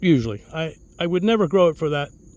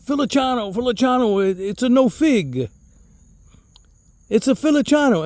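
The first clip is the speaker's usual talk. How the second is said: put-on insistent old-country uncle, pitched up; higher-voiced mock insistence; Uncle Mario; 5 semitones higher than usual. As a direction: imitate a stubborn uncle insisting on his word. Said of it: "And he would say".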